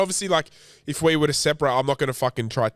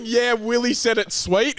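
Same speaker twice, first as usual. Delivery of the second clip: mock voice; 7 semitones higher, slower than usual. Mocking a claim about Willie.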